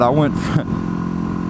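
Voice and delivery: slow words broken by laughter; laughing. Real, not acted. This is pretty funny.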